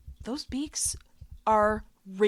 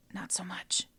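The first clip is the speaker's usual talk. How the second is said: low, near-whispered punchline; quiet, confiding undercut; hushed aside; 3 semitones lower, 10 dB quieter than usual. Real, not acted. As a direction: drop to a whisper for the letdown. Deadpan aside after rhetorical question.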